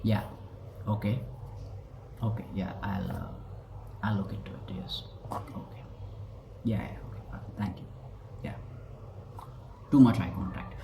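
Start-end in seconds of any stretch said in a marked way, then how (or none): 0.0-8.5 softer, breathless and offhand yeses; faked confidence. Shown as a demonstration. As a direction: brush it off like a man playing it cool. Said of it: "trying to exaggerate his confidence".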